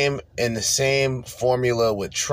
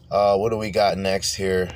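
usual speaking voice

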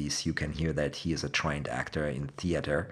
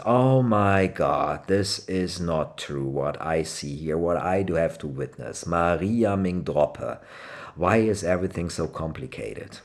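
mock exasperated OMG. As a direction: demonstrate a mildly dismayed lament. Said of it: "That's how would you would use".

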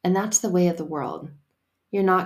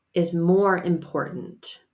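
"more" drawn out and slow; slow stress on "more"; slower than usual. Shown as a demonstration. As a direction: lean hard on "more". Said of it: "Hear the word more".

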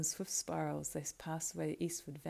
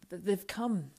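stammered, raised and strained start; spoke with effort; 3 semitones higher, 5 dB louder, slower than usual. Acted. Beregond to Pippin after the dreadful cry, speaking with effort. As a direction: force the words out haltingly. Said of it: "spoke with an effort".

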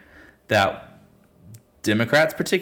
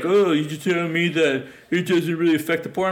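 mock indignant; 7 semitones higher than usual. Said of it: "this guy's like".

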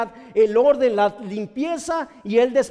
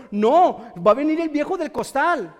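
louder, mock parental threat; scaring warning; 3 semitones higher, 4 dB louder than usual. Parent threatening a child with the bogeyman, mock warning. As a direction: warn the child as a scare. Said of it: "De repente usted anda diciendo".

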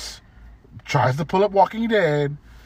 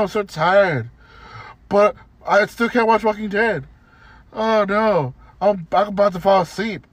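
mocking whiny customer; 3 semitones higher than usual. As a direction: drag it out like a lightly mocked tired customer. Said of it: "But she's just like".

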